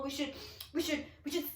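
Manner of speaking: building to a high, loud, laughing climax; excited blackbird. Acted. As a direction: get carried away by your own big idea. Acted blackbird's excited rebuttal.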